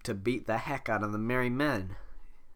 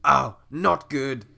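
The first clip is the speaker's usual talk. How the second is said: slowed retry; 2 semitones higher, 9 dB louder, much slower than usual. Acted. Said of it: "that wasn't a good voice".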